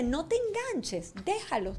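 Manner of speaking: imitating a daughter, high drawn-out plea; chiding daughter. Daughter tells mother not to get hooked, chiding.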